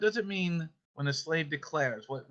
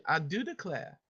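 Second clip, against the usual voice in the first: light Southern demo; modelled Southern pronunciation; Southern accent; 2 semitones higher, 4 dB quieter than usual. Shown as a demonstration. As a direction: say it with a Southern lilt. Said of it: "I just gotta hear it Southern".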